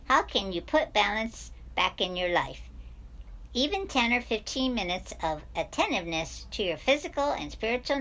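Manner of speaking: lightly quacky cartoon duck voice; Donald Duck voice. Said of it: "in my Donald Duck voice".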